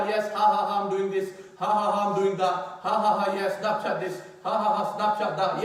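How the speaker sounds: rhythmic mock laughs between phrases; mocking social-media chatter. Preacher imitates people doing this and that on Snapchat, mocking. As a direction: imitate people gleefully showing off online, mockingly.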